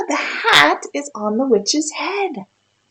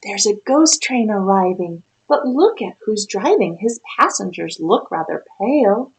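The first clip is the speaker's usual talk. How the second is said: put-on lively read-aloud for a child; storybook reading. A narrator's reading. Reads rhyming picture book aloud.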